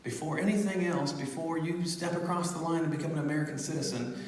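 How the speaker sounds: a hint of a tender soft-spoken blessing; gentle blessing. Voicing the Delta lady blessing the baby, lightly soft and tender. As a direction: speak it softly like a blessing over a child.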